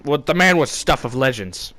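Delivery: usual speaking voice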